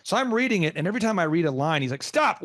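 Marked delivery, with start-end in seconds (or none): 2.0-2.4 sudden high-pitched halt; imitated sharp, high interjection; retold aggressive interruption. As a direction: cut in like an exasperated pastor. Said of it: "he's so aggressive".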